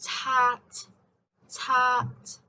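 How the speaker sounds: Tat with a hard final T; Tat, puff of air on the T; strong released T. Shown as a demonstration. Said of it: "a very strong T sound".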